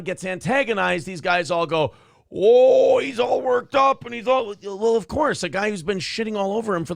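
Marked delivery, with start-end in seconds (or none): 2.3-4.5 loud, high mock whine. Podcaster parodying hosts who act shocked, in a loud high mock whine. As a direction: parody their fake shock.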